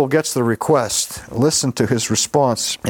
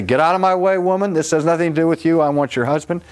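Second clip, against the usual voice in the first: mock angry rebuff; 5 semitones higher, faster than usual. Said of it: "Does he say".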